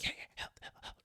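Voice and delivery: voiceless, soft panting dog; dog character. Acted. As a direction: pant the words like an eager dog. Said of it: "And Hilt's like".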